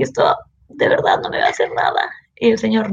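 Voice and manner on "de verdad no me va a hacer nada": whispered, timid question; scared whisper. Retold or imitated. Asking the guard if she'll be punished, whispered. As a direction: whisper it like a frightened student.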